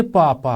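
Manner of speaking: पा, पा as two distinct beats; two separate syllables. Shown as a demonstration. Teacher showing a double-syllable word, two separate syllables. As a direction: split पा पा with a small gap. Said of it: "अब इसमें दो हैं".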